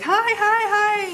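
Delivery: very high, loud squeal of hello; excited greeting. Retold or imitated. Counselor runs up to greet a fellow parent, excited imitation.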